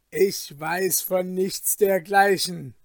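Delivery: loud, stubborn denial; Falke, wild defiance. Acted. Falke brushing off his friend's warning, defiant. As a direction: refuse to hear it, forcefully. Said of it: "wild lachend wie einer, der entschlossen ist".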